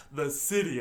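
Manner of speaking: "the city" set apart as if in italics; air-quote emphasis. Shown as a demonstration. Host marking the vague name in the movie, air-quote emphasis. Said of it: "That's why I'm changing my voice".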